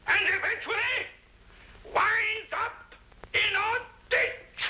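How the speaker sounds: orate grandly, savouring each phrase; pompous oratory. Shown as a demonstration. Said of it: "rehearses banquet speech to wife".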